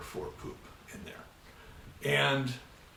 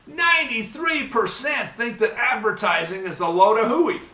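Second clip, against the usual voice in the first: louder, higher on hooey; emphatic; 8 semitones higher, 6 dB louder than usual. Real, not acted. Lecturer tells students ads are hooey, loud and higher. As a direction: drive the point home. Stressing advertising distrust.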